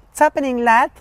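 a hint of a Liverpool lad's greeting in Scouse; Scouse accent. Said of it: "cuando dicen".

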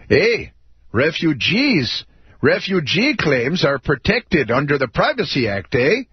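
hammed-up Canadian with a tagged-on eh; mock Canadian accent. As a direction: play the polite Canadian official, Canadian accent. Spokesman quote read as Canadian.

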